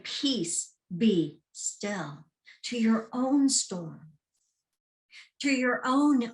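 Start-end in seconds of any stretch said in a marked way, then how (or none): 0.0-2.2 calm command. Shown as a demonstration. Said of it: "And say".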